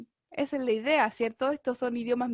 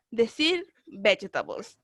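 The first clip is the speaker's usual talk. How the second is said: slow homework model; 3 semitones lower, slower than usual. Shown as a demonstration. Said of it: "Tarea para la casa".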